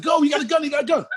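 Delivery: high-pitched mock panic; panicked warning. Man who jumped in a stranger's car urges escape, high panic. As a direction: replay a frantic plea in a squeaky high voice.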